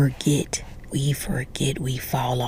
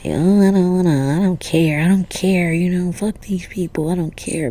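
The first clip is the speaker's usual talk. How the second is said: mock defiant indifference; 2 semitones higher, 7 dB louder than usual. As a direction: put on a loud show of not caring. Acting out people who claim indifference.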